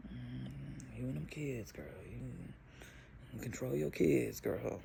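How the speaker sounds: imagined judgy lady sizing up the mom; judgmental passenger. Retold or imitated. Judging passengers imagined side-eye.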